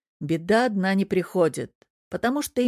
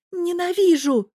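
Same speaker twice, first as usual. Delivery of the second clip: high, loud, slow furious bark; barked in anger; 12 semitones higher, 5 dB louder than usual. Acted. Tereza exploding at the devil, loud furious bark. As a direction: bark it from the heart, stamping. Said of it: "в сердцах рявкнула Тереза".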